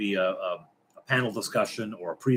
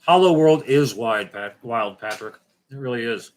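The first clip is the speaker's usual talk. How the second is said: put-on Russian accent; 5 dB louder than usual.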